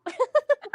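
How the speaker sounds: bouncy high cartoon giggle; Tigger laugh. Real, not acted. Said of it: "You sounded like Tigger there".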